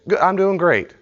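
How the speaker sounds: student answering a question never asked; eager reply. Retold or imitated. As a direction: blurt out the ritual answer.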